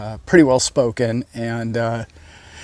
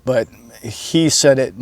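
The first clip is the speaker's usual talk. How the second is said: ordinary talk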